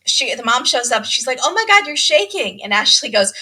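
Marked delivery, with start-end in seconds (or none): 1.4-2.6 higher, louder mock alarm; alarmed mom. Mom finds the bride shaking, mock alarm. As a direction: imitate a mom startled at her daughter.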